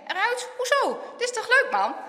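high, indignant questioning; surprised protest. A narrator's reading. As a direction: question the order in disbelief. Startled boy questions the order.

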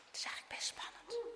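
very soft, hushed thrill; tense, barely voiced; secretive whisper. A narrator's reading. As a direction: whisper it as if sneaking. Sneaking down forbidden path.

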